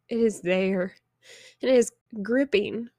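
crying. Real, not acted. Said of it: "And I don't mean to cry".

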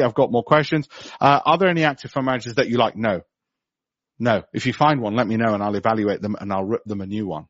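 ordinary delivery

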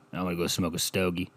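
low, soft thick-necked mumble; a lightly voiced fat cigar smoker; four chins voice. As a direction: sound like a man with four chins. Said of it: "Makes you sound like you have four chins".

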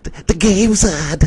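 high, excited call to a friend; excited shout. Retold or imitated. Texting his friend D, excitedly calling the game on. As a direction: hype him up that the game is on. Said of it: "I'm texting my friend".

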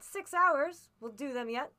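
loud, high burst easing into resolve; rally loudly against the clock; urgent cry. A narrator's reading. Captain springing up with six hours left, urgent cry. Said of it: "he cried".

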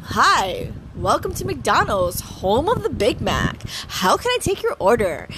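bright, upbeat drive-thru greeting; cheerful drive thru speaker. Shown as a demonstration. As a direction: greet the customer with real enthusiasm. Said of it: "so I would say".

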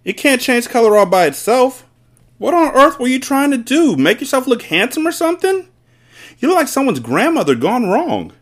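very high, loud tirade; shrill-pitched scornful mother; crying out. A narrator's reading. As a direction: berate the husband in a high voice. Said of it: "the mother cried".

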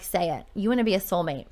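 retold quiet needling; teasing. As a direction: goad him playfully under your breath. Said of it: "I was teasing him".

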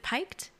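"piked" rhyming with "liked", unsure; mispronounced piqued. Real, not acted. Host guessing how "piked" is said, mispronounced to rhyme with "liked". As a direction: say "piked" like "pike" with a t, as a question. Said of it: "I think I've been pronouncing it".

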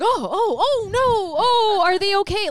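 high, worried fretting; drawn-out high-pitched mock concern; imitated concerned mom. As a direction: fret over them like a sweet worried mother. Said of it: "she would be so concerned".

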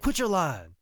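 high, loud exasperated retort; Bobby Eaton. Retold or imitated. Bobby calling out his partner's boasting, exasperated. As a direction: shut him down, pitch falling off. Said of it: "And Bobby the whole time's like".

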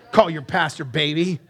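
ordinary delivery

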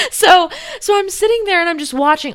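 words bubbling through giggles; laughing while talking. Real, not acted. Telling viewers about the train mishap, laughing.

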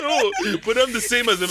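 put-on squeaky, high-pitched childish protest; high mock child voice. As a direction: play a kid pleading he's the same. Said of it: "it's like".

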